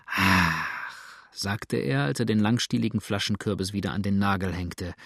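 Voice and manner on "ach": long, lower "ach" of relief; contented sigh. A narrator's reading. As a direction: sigh with relish after a cool drink. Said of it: "mit Ausrufen unverkennbaren Wohlbehagens".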